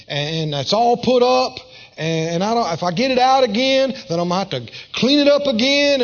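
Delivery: a hint of a weary, grumbling fisherman; lightly voiced tired excuses, rushing near the end; tired reluctant Peter. Peter, worn out, arguing with the preacher: mild weary grumble. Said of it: "Reasoning. Fatigue of the flesh talking".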